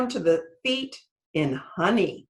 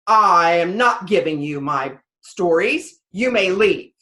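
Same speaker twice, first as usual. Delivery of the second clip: louder, stern dismissal; angry sky god; 2 semitones lower, 7 dB louder than usual. Acted. Sky god refusing Anansi, a touch of stern anger. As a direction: cut him off with royal displeasure. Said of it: "he was very angry".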